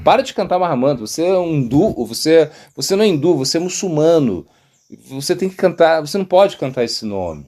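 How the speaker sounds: imitated scolding order; stern prohibition. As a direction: lay down the law as an official. Governor forbids chanting, quoted.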